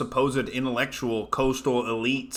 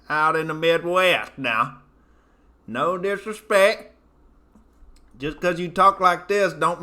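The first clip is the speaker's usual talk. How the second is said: full hillbilly character; 4 semitones higher than usual. Acted. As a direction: lean into the hick voice. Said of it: "I'd have to go full character".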